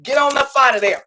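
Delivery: angels tapping your shoulder, urging you out; angels calling out. Pretend. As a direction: spirit guides loudly calling to get out. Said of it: "They tap you on the shoulder like".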